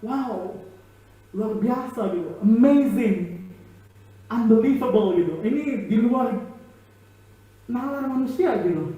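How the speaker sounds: amazed crowd. Acted. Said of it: "Mereka heran".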